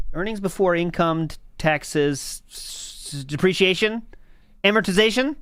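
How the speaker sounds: triumphant recitation. Real, not acted. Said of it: "Nailed it".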